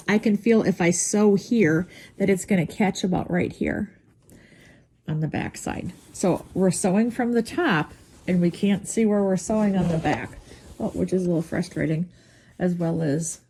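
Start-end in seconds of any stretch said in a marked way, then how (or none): 6.1-13.4 pins in mouth. Real, not acted. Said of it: "I'm talking with a pin, with a pin in my mouth".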